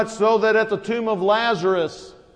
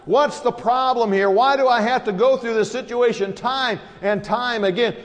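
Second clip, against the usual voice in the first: frustrated; 2 semitones higher than usual. Retold or imitated. Jesus exasperated with his disciples, building frustration. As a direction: voice the weary questions, rising. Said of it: "in frustration".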